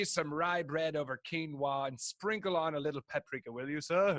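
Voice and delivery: mock fancy customer ordering; lightly pompous order to a waiter; posh diner. Friend joking as a fussy restaurant customer. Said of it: "posh diner ordering".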